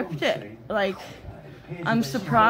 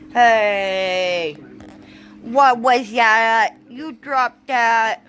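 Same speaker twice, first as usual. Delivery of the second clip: louder, slow stern telling-off; scolding the dog; 5 dB louder, much slower than usual. Real, not acted. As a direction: catch the dog out, slow and firm. Scolding dog for dropping something.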